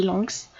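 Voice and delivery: "lungs" with the G barely touched; "lungs", a light hidden G; soft G. Shown as a demonstration. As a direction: say "lungs" without leaning on the G. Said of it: "on n'appuie pas dessus".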